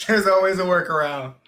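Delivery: quipping. Real, not acted.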